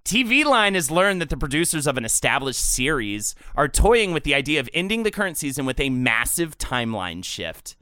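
steady news-style read of a gossip item; a light news read; reading an item aloud. Acted. Reads blind item aloud.

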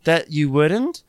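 hammed-up indignant Whitney; mock Whitney.

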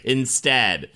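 slow mock-ominous storyteller; lightly hammed spooky narration; horror host. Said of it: "Listen to the woe tale instead".

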